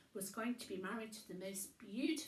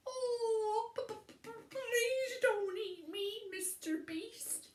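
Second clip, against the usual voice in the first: terrified stammer; 12 semitones higher, 6 dB louder than usual. Acted. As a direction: beg for your life, stuttering. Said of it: "he stammered".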